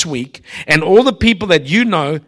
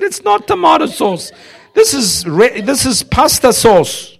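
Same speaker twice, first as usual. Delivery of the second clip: indignant correction; 9 semitones higher than usual. Retold or imitated. Arguing with waitress.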